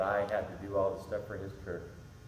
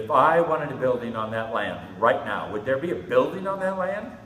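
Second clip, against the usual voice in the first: voice of God; 3 semitones higher, 9 dB louder than usual. Retold or imitated. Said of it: "Here's what God said to me".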